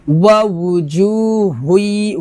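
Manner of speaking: ওয়া উজুহুই with the ending হুই drawn out and nasal; ghunnah on হুই. Shown as a demonstration. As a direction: let হুই ring through the nose. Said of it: "হুই গুণ হবে". (হুই-তে গুন্নাহ দিয়ে টেনে পড়া)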